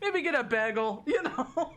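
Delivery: put-on Minnesota accent. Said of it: "a Minnesota accent".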